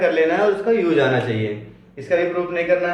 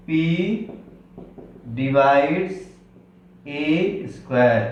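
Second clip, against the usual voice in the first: slow, spaced read; 2 semitones lower, much slower than usual. Shown as a demonstration. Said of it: "इसकी meaning होती है".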